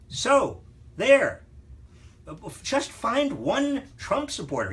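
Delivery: loud, high-pitched "so there"; emphatic mock scolding. Real, not acted. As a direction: punch each word high and loud. Mock-scolding teacher assigns homework.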